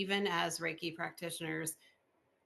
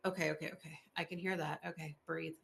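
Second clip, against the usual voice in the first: calming herself; 4 dB quieter, faster than usual. Retold or imitated. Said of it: "And I'm like".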